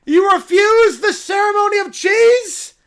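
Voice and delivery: a cub thrilled by the news; excited little bear. Acted. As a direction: squeal it like an overjoyed cub. Bear shouting.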